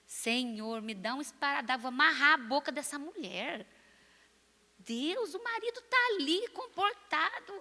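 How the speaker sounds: hammed-up inner cry to God; mock exasperated prayer. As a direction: playfully act out horrified disbelief, pitch soaring. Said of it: "e eu digo".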